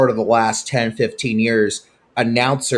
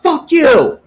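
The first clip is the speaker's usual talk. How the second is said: high, loud angry yell; yelled curse; 9 dB louder than usual. Retold or imitated. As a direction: scream it at the umpire. Coach yells at umpire.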